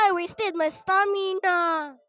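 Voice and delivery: slow, stretched-out complaint, ending in a cry; whiny wail. Real, not acted. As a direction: drag the words out in mock despair. Game mishap, drawn-out whine.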